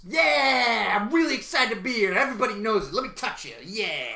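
hyped-up wrestler voice, easing off; loud start, settling into eager chatter; Seth Rollins. Acted. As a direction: gush like an excited wrestling star. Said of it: "Seth Rollins is coming".

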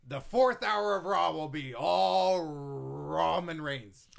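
loud, slow hype announcement; booming promo voice. Acted. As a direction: sell it like a wrestling promoter. Vince hyping Roman.

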